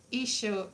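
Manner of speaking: isio with a "sh" in it; isio as "eesho". Retold or imitated. Learner copying Duolingo, isio with "sh". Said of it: "Duolingo says that".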